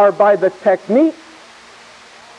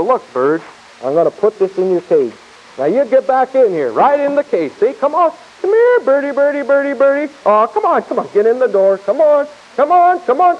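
coaxing a wild bird; 3 semitones higher than usual. Acted. Coaxing a bird back into cage.

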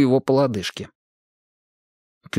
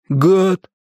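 shouted call; 6 semitones higher, 5 dB louder than usual. Acted. Curtis calls out.

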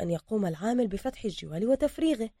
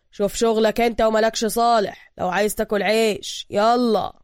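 mild angry threat, louder; angry warning; 2 semitones higher, 6 dB louder than usual. Acted. Worker threatening Bruce to mind his business, angry. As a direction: tell him to back off. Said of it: "ثم استكمل بغضب".

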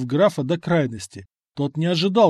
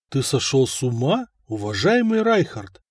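polite inquiry. Acted. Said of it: "вежливо поинтересовался".

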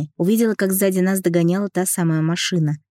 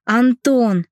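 mock-yelled name, higher and louder; 6 semitones higher, 4 dB louder than usual. Heroine yelling to Anton on the phone, alarmed yell. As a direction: shout his name in alarm. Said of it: "заорала я".

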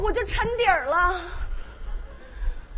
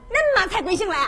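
Henan dialect; 3 semitones higher, faster than usual. Acted. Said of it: "亲切地问候".

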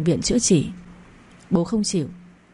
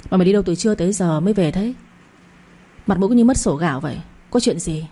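scolding. Acted. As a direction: lightly scold a girl who keeps refusing. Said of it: "mắng tôi".

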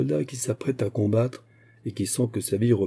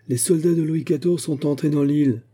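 higher-pitched urgent proclamation; harangue; 6 semitones higher than usual. A narrator's reading. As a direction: announce it to the whole crowd. Aramis haranguing the crowd. (harangue, d'une voix haute)

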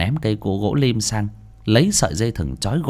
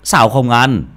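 loud, pressing urging; urging father; 6 dB louder than usual. Acted. Father urging his son to eat the fish, louder. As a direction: hurry and push him to eat. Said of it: "giọng thúc giục".

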